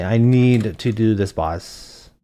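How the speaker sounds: ordinary talk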